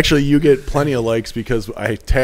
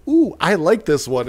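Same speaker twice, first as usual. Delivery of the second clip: put-on high, sweet old lady; 6 semitones higher than usual. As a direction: coo it like a grandma. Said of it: "old ladies ... say".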